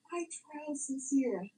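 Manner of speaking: slow, sing-song mock quote; slow mocking imitation of his claim; mocking the narrative. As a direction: drag it out mockingly. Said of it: "I'm gonna give you the narrative".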